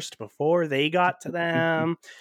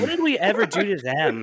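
louder, higher mock-wounded protest; mock indignation; 5 semitones higher, 4 dB louder than usual. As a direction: feign hurt outrage with a laugh behind it. Mock outrage at Russians' betrayal.

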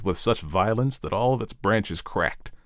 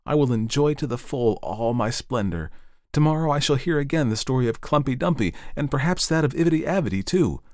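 a hint of an eager young tree, pitched higher; the tree's daydream, a touch higher and hopeful; lightly voiced fir tree; 6 semitones higher than usual. The fir tree dreaming of the evening, lightly hopeful.

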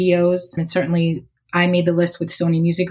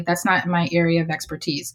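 calm. Retold or imitated. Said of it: "just very calmly say".

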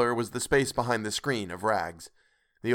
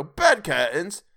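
slow, high, loud rising question; incredulous question; 7 semitones higher, 6 dB louder, much slower than usual. A narrator's reading. Joe finding bed curtains in the bundle, incredulous. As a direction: draw it out and lift it in disbelief.

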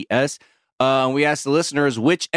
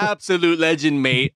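put-on London roadman accent; 5 semitones higher than usual.

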